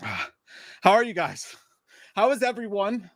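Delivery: high, hammed-up Cage greeting; terrible Nicolas Cage. Greeting the chat as a bad Nicolas Cage. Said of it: "That was that terrible Nicolas Cage impression".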